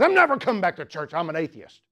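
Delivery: high, loud, quick retort that drops at the end; mock angry. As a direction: imitate an angry man snapping back. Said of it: "so he just looks mad".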